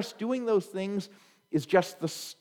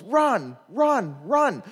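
loud, higher shouts of run; coach yelling; 5 semitones higher, 5 dB louder, much slower than usual. Retold or imitated. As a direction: shout run at the kid on base. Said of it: "he goes".

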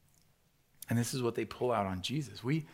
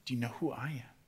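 soft, gentle, compassionate question; Jesus asking with quiet compassion; 5 dB quieter, faster than usual. Acted. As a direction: ask it as a tender appeal, softer. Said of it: "with compassion".

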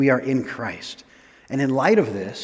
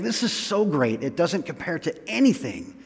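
Paul. Retold or imitated. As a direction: act out gushing awe, then hurry into the explanation. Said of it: "you can imagine Paul saying".

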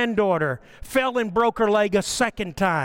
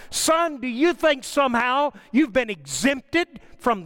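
mildly raised, urgent challenge; stern wake-up rebuke; 4 semitones higher than usual. Retold or imitated. God rebuking a grieving parent in his bedroom, retold as a stern challenge. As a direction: press each question home to jolt him awake.

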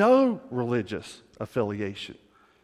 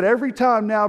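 joyful celebration; 6 semitones higher, 6 dB louder, faster than usual. Retold or imitated. Golfer celebrating his new faith.

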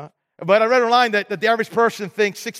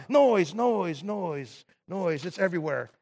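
noise, noise, each softer until nearly gone; fading repetition; 3 semitones lower, 8 dB quieter, slower than usual. Acted. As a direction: let the word die away. Repeating noise, fading away.

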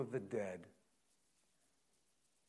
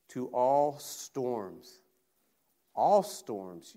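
slow, louder proclamation; preaching proclamation; 6 dB louder, much slower than usual. Acted. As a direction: ring it out over every storm. Preacher voicing Jesus on the cross.

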